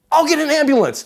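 high, loud alarmed cry; panicked pastor. Retold or imitated. Pastor panics at the hurt intern, high loud cry. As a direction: blurt it out in a panic. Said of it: "he goes".

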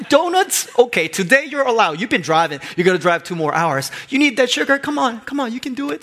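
high, playful self-coaxing about donuts; coaxing himself. Retold or imitated. Pastor talking himself into road-trip donuts, high and coaxing. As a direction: tempt yourself like a kid with a treat.

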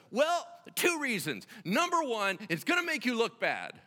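lightly acted, high-pitched pleading of a case; insistent arguing. Moses arguing back with God.

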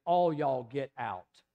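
slow Tennessee drawl with the stress on all. Shown as a demonstration. Preacher showing how folks in Tennessee would say it, slow Tennessee drawl. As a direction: drawl All y'all get out slowly, Tennessee style, leaning on all. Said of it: "In Tennessee, Walter Hill, we would say".

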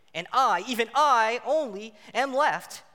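hammed-up anguished outcry; anguished cry. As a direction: cry out alone and desperate. Elijah's lament read aloud.

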